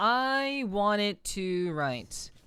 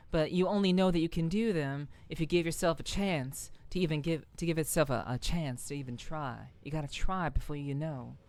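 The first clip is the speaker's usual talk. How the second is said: lightly put-on Southern accent. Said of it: "we'll go with a southern accent for now".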